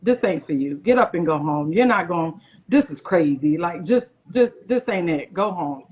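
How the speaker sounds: a low, pushy voice urging her to quit; low doubting inner voice. Retold or imitated. Her doubting inner voice telling her to go home, low and insistent. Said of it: "something was telling me".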